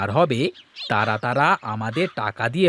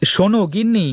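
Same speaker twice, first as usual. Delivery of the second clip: raised, higher call to the wife; 7 semitones higher, 4 dB louder than usual. Acted. Husband calls his wife, loud and high. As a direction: call her from across the house.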